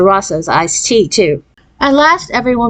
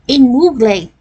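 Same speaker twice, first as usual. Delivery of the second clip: exclaiming; 5 semitones higher, slower than usual. A narrator's reading. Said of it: "exclaimed Deanie".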